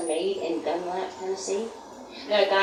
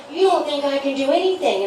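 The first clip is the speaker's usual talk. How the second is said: high, loud hurt comeback; husband's indignant retort; 8 semitones higher, 6 dB louder than usual. Retold or imitated. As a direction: play the offended husband. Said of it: "And he was like".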